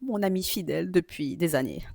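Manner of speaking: whispered joking aside; mock whisper. Joking to viewers about ChatGPT, whispered mock aside. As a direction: whisper it like a secret confession.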